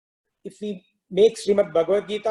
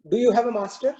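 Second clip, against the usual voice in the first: lightly raised, calm cow asking; gentle cow voice; 5 semitones higher, faster than usual. Acted. Cow asking the stuck lion, lightly higher voice. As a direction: ask it innocently, a little higher.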